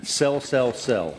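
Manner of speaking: talking with mouth closed, dummy style; Jim ventriloquist voice. Pretend. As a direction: lips barely moving, like a ventriloquist. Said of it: "I'm gonna do Jim's voice as he's drinking to be like a ventriloquist act".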